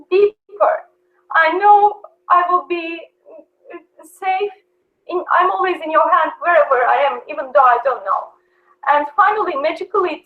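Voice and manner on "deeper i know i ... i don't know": retold prayer.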